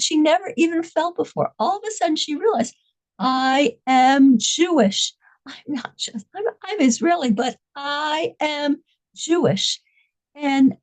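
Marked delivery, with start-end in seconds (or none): 3.2-9.8 slow, sincere inner realization. Retold or imitated. Hostage realizing her identity to herself, slow and sincere. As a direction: say it slowly as a discovery. Quiet realization after the scream.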